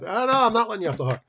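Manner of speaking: mock indignant refusal; firm refusal. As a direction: refuse flatly, raising the voice. Refusing to let him off.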